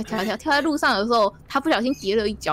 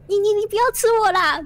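scared pleading; 10 semitones higher, 6 dB louder than usual. Acted. Frightened frog begs giant.

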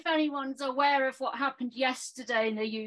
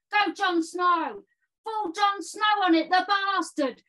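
hammed-up boastful gamer lad; silly clown. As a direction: bellow nonsense like a cocky clown. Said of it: "So I've done a poem".

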